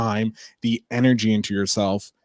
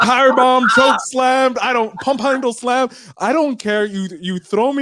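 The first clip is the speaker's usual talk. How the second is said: eager excitement; 10 semitones higher than usual. Real, not acted. Dreaming of wrestling moves.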